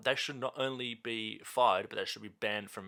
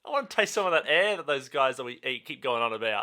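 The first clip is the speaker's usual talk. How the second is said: excited high cartoon shark; silly shark voice; 3 semitones higher, 8 dB louder than usual. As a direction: play a hyped-up shark. Voicing sharks in silly bit.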